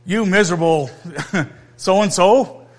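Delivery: mock scolding. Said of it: "It's not like the father said".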